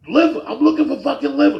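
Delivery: high, loud mock outburst; upset old man. Old man demanding liver from the second worker, upset. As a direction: imitate an old customer at the end of his patience. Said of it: "Now he's getting upset".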